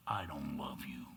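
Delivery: low, breathless whisper of a cold farewell; hushed retelling of the wife's words; whispered quote. Retold or imitated. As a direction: breathe it like a final blow. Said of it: "my wife looked at me and said".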